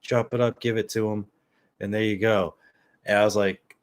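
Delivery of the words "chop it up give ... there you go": lightly imitated know-it-all, slightly raised; mildly mock a man giving unasked advice; advice-giving stranger. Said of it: "he's like".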